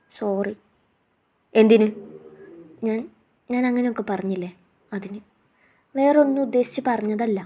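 tearful apology. Acted. Wife apologising to her hurt husband, soft and tearful. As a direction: apologise quietly, holding back tears.

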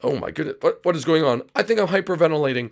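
high, fast hammed-up hyperventilating; mock panic. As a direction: gasp out the words in a fake panic. I think I'm hyperventilating.

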